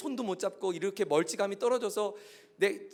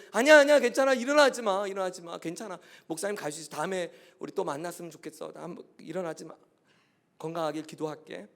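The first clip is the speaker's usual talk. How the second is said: calm him down, then speak gently; pastor telling the patient not to get up; 6 dB louder than usual. Retold or imitated. Pastor soothes sick youth, retold.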